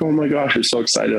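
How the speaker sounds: light mock glee of a kid; imitating excited son. Father voicing son holding up the antlers. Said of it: "he's like".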